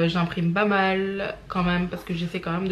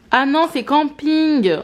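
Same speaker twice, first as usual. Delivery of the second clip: slow, louder, higher "Ah non, c'est camping"; catching her own mistake out loud; surprised realization; 6 semitones higher, 5 dB louder, slower than usual. Real, not acted. To viewers, realizing she's watching Camping, surprised.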